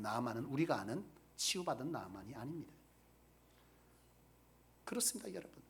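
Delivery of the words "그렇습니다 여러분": hushed whisper. Real, not acted. Preacher to congregation, whispered affirmation. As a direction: confide it in a whisper.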